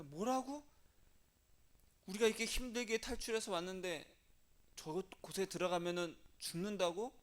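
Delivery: acted indignant disbelief, pitch jumping up; mock outraged crowd, incredulous questions; worked up. People of Israel hearing the spies' report, heated disbelief. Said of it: "막 열을 냅니다".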